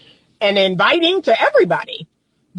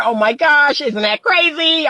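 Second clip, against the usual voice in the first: higher, playful flirty reaction; fun, flirty; 5 semitones higher than usual. Shown as a demonstration. Chatting with a man on the phone, fun and flirty. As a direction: demonstrate a lightly flirtatious phone voice. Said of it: "He can hear the fun, flirty laughter".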